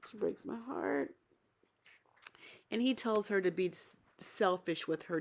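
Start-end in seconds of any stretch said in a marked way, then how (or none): 0.1-1.1 much softer, sighing sadness; soft heartbroken. Real, not acted. After a sigh over Katina crying, soft and sad. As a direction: let it fall away softly.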